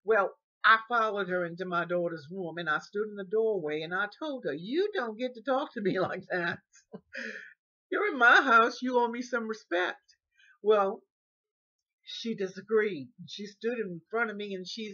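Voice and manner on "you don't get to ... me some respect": loud, rising indignation; indignant scolding. Retold or imitated. Old woman scolding the caregiver, loud and indignant. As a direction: tell her off, full of wounded pride.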